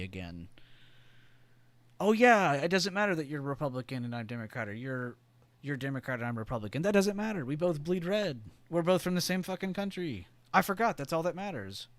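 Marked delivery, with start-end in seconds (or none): 2.0-11.9 high, loud, hammed-up patriotic everyman; mock patriotic citizen, high and loud; mock earnest citizen. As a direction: play a gushing neighbour suddenly seeing unity. Acting out united citizens' dialogue.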